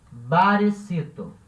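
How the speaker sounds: barecito slow, ba-re-SI-to; slow demo. Shown as a demonstration. Teacher modelling the diminutive barecito, slow. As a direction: stretch out barecito. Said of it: "vai ficar".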